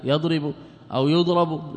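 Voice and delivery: يضرب read first as yadrib, then as yudrab, slowly; contrasting vowel readings. Shown as a demonstration. Teacher showing students two readings of يضرب, slow and deliberate. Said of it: "من وضع فتحة على الياء".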